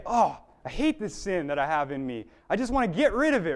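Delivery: worked-up disgust, building in pace; vehement, acted-out self-reproach; angry resolve. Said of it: "I'm so angry".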